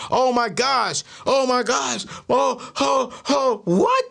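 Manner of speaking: high-pitched, gushing astonishment; hammed-up awe at big news; mock amazement. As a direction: imitate someone gullibly thrilled, pitch climbing. Acted gullible reaction to horoscope.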